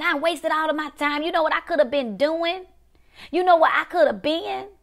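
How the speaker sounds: high-pitched, indignant lament; protesting voice pitched well above normal; angry regret. Acted. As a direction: act out someone aggrieved over a wasted life, pitch climbing. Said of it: "and you're angry. Angry. Because you're saying".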